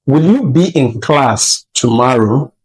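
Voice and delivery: "Will you be in class tomorrow" asked with a rise at the end; question intonation. Shown as a demonstration. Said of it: "there's a way a question should be asked".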